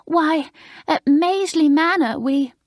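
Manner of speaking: high, prim, gushing schoolgirl voice; prim new girl. Acted. Maureen, alarmed, telling the fifth formers off, high and prim. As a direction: play the prim girl shocked at the idea.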